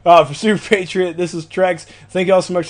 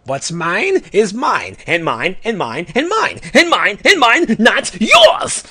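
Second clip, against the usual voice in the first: hoard every word like treasure, rising to a yell; greedy Orange Lantern; 6 semitones higher, slower than usual. Acted. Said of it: "here is the orange lantern oath real fast".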